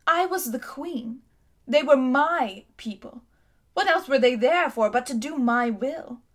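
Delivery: a haughty queen remembering her city's might; lightly voiced imperious queen; proud queen. Queen justifies herself.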